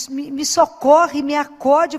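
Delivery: imitating a frantic mother begging for help; a mild mock cry of a panicked mother on the phone; mother's desperate cry. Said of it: "quando uma mãe grita e gritava assim".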